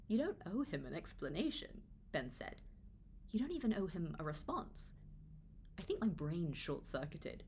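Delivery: steady, measured reading of her own book; memoir narration. A narrator's reading. Author reading her memoir chapter to viewers, measured narration.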